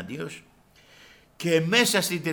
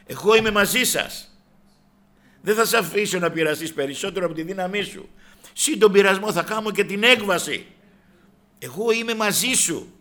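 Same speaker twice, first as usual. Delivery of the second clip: higher, louder reassurance; raised preaching voice; 6 semitones higher, 8 dB louder than usual. Retold or imitated. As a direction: ring out the promise. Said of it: "λέει ο Χριστός".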